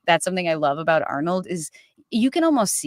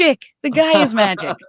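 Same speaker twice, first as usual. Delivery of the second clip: excited; 6 semitones higher, 7 dB louder than usual. Real, not acted. Hypes up Arnold.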